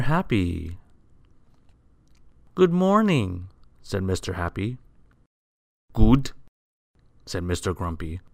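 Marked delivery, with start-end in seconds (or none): 2.5-3.5 high, sing-out greeting; cheerful greeting. A narrator's reading. Cheerful Mister Happy greets his neighbour. 5.9-6.3 loud, grumpy one-word retort. A narrator's reading. Grumpy character snaps back at greeting.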